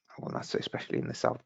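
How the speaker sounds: fast, hushed self-correction; hushed, hurried hedge slipped in mid-thought; quick quiet aside. Real, not acted. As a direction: rush it softly as a hedge. Correcting himself mid-sentence.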